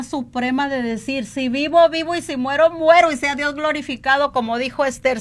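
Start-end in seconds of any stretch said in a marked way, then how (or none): 1.2-4.3 rising, emphatic preaching declaration; fervent declaration. Acted. Testifying to the church, fervent declaration of faith. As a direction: proclaim it boldly to the congregation.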